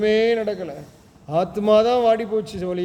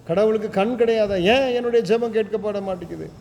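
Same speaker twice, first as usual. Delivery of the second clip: mock lament; 3 semitones higher than usual. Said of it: "அநேகருடைய புலம்பல் இதுதான்".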